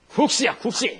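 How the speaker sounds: loud, high mock Gyeongsang retort; Gyeongsang dialect. A preacher imitating a Gyeongsang man correcting a Seoul man, loud dialect. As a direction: bark it like a proud Busan man. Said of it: "경상 사람이".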